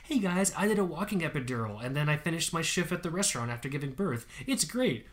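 mock a chirpy content influencer; hammed-up influencer voice, up high at the end. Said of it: "a fucking content influencer says".

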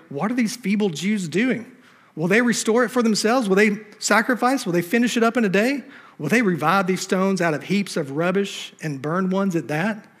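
lightly voiced mocking enemy; mocking Sanballat. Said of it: "And he said in the presence".

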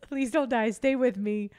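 half-laughing imitation of a weeping lover begging; mock tearful plea. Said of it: "And then she's crying".

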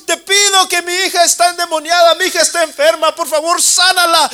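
loud, high desperate crying out; shouting plea. Acted. Mother calling out to Jesus to heal her daughter, shouting. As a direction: yell to the Master for your daughter. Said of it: "empezaba a gritarle".

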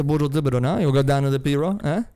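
mumbled Cajun accent demo; French-tinged Cajun, words mumbled together. Shown as a demonstration. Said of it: "Can you do a Cajun accent?".

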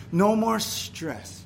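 NO drawn out slow and high; slow emphatic. Real, not acted. Preacher stressing heaven's promise, slow and emphatic. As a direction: lean on No, slowly.

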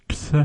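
"ks" unvoiced, k then s; ks sound. Shown as a demonstration. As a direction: say ks crisply without voice. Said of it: "X is".

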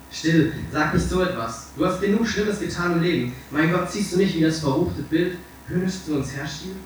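high, agitated hushing; horrified pleading. A narrator's reading. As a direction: stop him, aghast at his words. Horrified painter hushes despairing Dorian.

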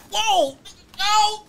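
very high startled exclamation; acted shock. Client learns sheriff wants him, shocked. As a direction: yelp it in mock alarm. Acts out shock at being wanted.

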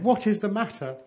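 high, anxious motherly question; alarmed mother. A narrator's reading. Mother asking her crying children what's wrong, alarmed. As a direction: ask with urgent concern.

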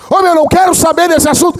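high, shouted refusal; mock outraged yell; retold loud brush-off. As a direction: blare it out for all to hear. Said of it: "Ele escancarava".

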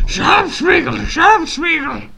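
high, loud Gollum shout. Acted. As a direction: shriek it like Smeagol. Continuing Gollum impression.

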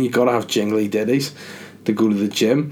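talking through a sore throat; strained voice from a sore throat. Real, not acted. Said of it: "Oh, my throat is so sore".

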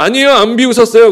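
lightly acted defensive protest; a touch of indignant denial. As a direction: deny it quickly, as if caught out. Sarah's denial acted out to God.

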